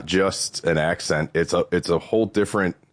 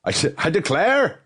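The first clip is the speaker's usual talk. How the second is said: mock Southern drawl; 10 semitones higher than usual. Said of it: "Where is that accent supposed to be".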